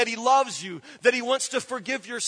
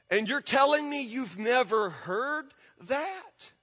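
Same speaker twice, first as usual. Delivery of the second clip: incredulous. Real, not acted. Incredulous rhetorical question.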